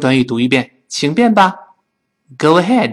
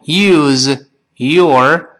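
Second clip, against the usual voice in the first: slow separate words. Shown as a demonstration. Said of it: "读得非常快的时候".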